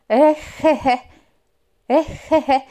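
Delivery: loud high croaky laugh; frog laugh. Acted. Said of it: "roześmiała się żabka".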